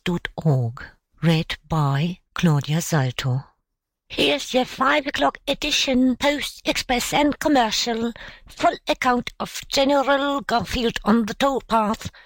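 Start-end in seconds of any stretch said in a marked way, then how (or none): 4.1-12.1 high newsboy's street cry; shouted. A narrator's reading. Newsboys hawking papers to a portly gentleman, shouting. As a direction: call out the headlines to passersby. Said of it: "shouted three urchins".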